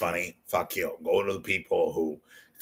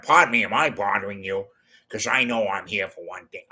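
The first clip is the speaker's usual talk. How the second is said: Columbo impression. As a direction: politely pester the deli clerk as Columbo. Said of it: "Peter Falk, Inspector Columbo".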